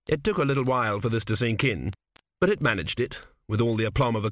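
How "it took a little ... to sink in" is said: ordinary delivery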